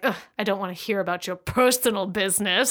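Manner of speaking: quick dismissive grumble from a stuffy boss; a light hint of a stuffy British boss waving off personal talk. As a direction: brush him off in a rush, mildly mock-stuffy. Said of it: "most ridiculous British stereotype".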